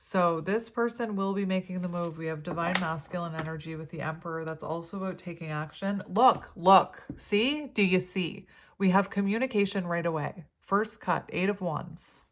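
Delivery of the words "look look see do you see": excited. Real, not acted. Excited at the card spread.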